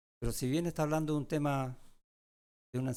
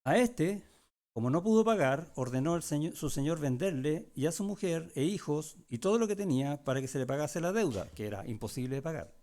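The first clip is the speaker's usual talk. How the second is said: scripture reading; 3 dB louder than usual. Acted. Pastor reads Matthew's parable to the congregation, a raised, deliberate reading. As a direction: read the verses out to the flock.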